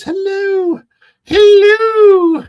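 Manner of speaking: very high, loud falsetto hello; Mrs. Doubtfire. Retold or imitated. Host imitating Mrs. Doubtfire greeting viewers, high falsetto. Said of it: "This is Doubtfire".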